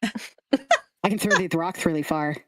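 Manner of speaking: boastful lisping little creature; lisping scarecrow kid. Acted. Kid brags to Lulu about skipping stones, lisping. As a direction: show off with a thick lisp. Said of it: "The lisp".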